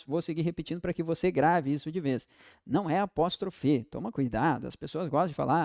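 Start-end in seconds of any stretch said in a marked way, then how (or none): 2.7-3.8 "apóstrofe" ending in a clear -fe; wrong pronunciation. Shown as a demonstration. Teacher citing the mistaken word, ending "apóstrofe" on -fe. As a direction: say "apóstrofe" with the final E sound. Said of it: "Não, é apóstrofo".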